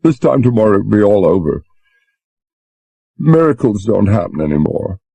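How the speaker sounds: a touch of sobbing despair; between sobs. A narrator's reading. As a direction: Susan giving up hope, mildly tearful. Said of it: "said between sobs".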